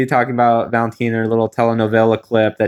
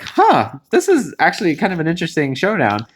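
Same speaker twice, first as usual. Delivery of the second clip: intrigued realization; 3 semitones higher than usual. Retold or imitated. Fan noticing Miss Congeniality showdown, intrigued huh. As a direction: pitch jumps high on huh, then settles.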